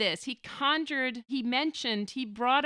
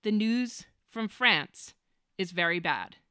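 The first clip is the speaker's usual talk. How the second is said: slow quoted line. Retold or imitated. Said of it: "The opening line that John likes so much".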